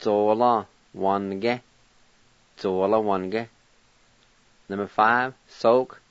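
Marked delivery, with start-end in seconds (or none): 0.0-3.5 "Zo, la, wan, ge" with the I dropped before N; silent I with N. Shown as a demonstration. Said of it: "be like this".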